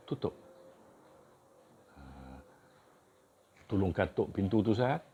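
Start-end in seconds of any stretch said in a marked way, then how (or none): 3.7-5.0 Kedah dialect polite request; northern Malay asking ustaz; kedah malay accent. Shown as a demonstration.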